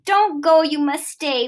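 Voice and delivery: high, loud, slow pleading call; begging the cat to stay, calling high and loud; calling after the cat. Acted. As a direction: shout after the runaway cat. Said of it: "we shouted".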